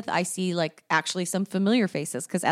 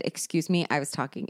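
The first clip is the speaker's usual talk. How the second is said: softer, lower quoted put-down; quiet retelling; 3 semitones lower, 5 dB quieter than usual. Retold or imitated. Recalling telling her friend off, softly and lower. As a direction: murmur the retort back as a memory. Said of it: "The only person I have ever said".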